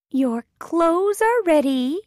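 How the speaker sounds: high, loud mouse announcement; mouse character. A narrator's reading. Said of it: "says the mouse".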